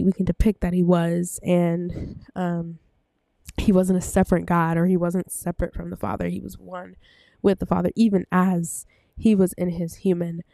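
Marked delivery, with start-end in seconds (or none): 6.3-10.4 breathless, winded talking; speaking short of breath. Real, not acted. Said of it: "I'm so out of breath".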